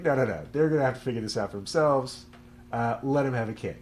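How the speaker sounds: hint of God overruling an objection; God insisting. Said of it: "But God's like".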